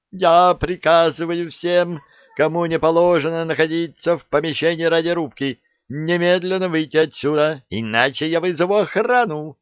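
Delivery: high, loud order; commanding shout. A narrator's reading. Lieutenant orders strangers out of the radio room, shouting.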